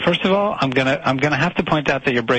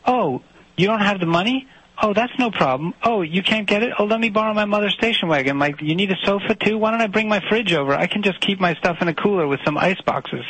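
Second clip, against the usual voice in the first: higher, eager mock people-pleaser; mocking pushover; 5 semitones higher than usual. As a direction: parody his too-accommodating friend. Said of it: "Your solution is".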